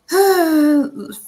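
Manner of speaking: high, loud sigh. Real, not acted. Loud sigh mid-reading.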